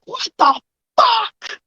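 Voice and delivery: high, slow, stunned disbelief; shocked. Acted. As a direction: gape at the sight. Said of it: "he's gonna look and be like".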